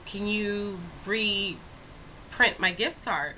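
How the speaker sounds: imitating a caller drawing out a favor; very slow, stretched-out tentative ask; hesitant request. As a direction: feel out the favor word by word. Retold customer asking a favor.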